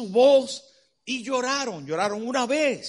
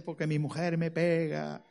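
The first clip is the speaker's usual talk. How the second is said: softer, laughing mock sob; tearful joke whine; 5 semitones lower, 6 dB quieter than usual. Crying man tells the preacher his wife hits him, whining. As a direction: whimper the punchline.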